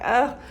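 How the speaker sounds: quick burst of irritation, acted out; exasperated "ugh". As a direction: let out a fed-up "ugh". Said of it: "I get a bit like".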